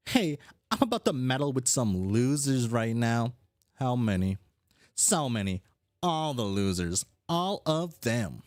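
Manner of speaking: lightly voiced cocky troll; a hint of a gloating troublemaker; brash schemer.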